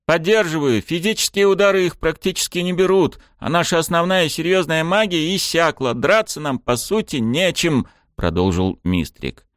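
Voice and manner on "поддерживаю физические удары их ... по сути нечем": out of breath. Acted. Winded fighter continues, same breathlessness.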